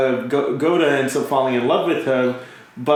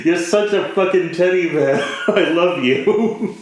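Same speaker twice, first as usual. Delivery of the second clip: laughing affection; 4 semitones higher than usual. Retold or imitated. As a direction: gush through giggles. Fond scolding of the character.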